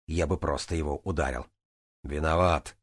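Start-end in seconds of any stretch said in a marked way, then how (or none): 2.0-2.8 gently said apology; a touch of softness, understated; soft reply. A narrator's reading. Тараэт answers his annoyed friend, mildly soft. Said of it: "мягко откликнулся Тараэт".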